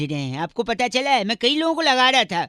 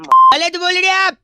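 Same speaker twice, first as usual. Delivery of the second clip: slow, loud and higher; drawn-out mock indignation; indignant; 8 semitones higher, 8 dB louder, slower than usual. Mock scolding the caller.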